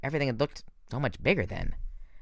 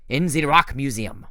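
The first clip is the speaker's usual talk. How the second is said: put-on French accent; 3 semitones higher, 5 dB louder than usual. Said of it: "weird French accent".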